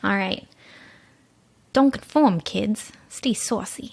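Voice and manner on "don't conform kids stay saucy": put-on breathy old-movie damsel sign-off; a dame from a newsroom picture, trailing to a hush; damsel in distress. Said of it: "You sound like a damsel in distress".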